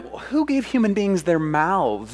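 God's tone. Retold or imitated. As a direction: speak as God demanding an answer. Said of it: "that was his tone".

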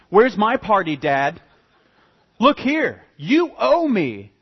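building from loud to a high, loud shout; jealous son yelling at his father over the party; indignant rant. Retold or imitated. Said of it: "that's his attitude".

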